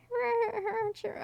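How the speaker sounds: high, thin chirping cricket noise. Acted. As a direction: try to chirp like a cicada. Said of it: "me trying to make, like, a cricket cicada noise".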